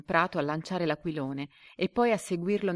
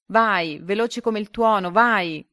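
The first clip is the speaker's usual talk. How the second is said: loud, higher-pitched urging; shouted cheer; 4 semitones higher, 9 dB louder, slower than usual. A narrator's reading. Boy below to his flying kite, shouting. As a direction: cry out to urge it on. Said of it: "in basso che gridava".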